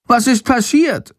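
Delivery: high, squeaky little bat voice. A narrator's reading. Bat asks in shock. (hohe Fledermausstimme, aufgeregt erzählend)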